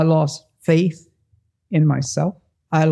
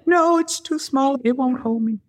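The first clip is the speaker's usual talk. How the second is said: scared; 8 semitones higher than usual. Retold or imitated. Frozen on the rock, pleading.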